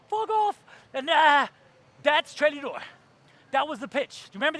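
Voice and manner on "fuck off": high defiant shout. Retold or imitated. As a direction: scream it at him. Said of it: "she's like".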